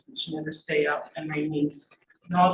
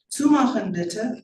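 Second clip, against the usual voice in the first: slow, higher-pitched German plea; German request; 5 semitones higher, 4 dB louder, slower than usual. A narrator's reading. Girl desperate that he shut the door, pleading in German. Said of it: "I add in German".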